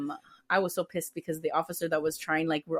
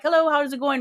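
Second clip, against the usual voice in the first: breezy, higher and louder hello; friendly door greeting; 7 semitones higher, 5 dB louder than usual. Acted. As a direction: greet a visitor at your front door.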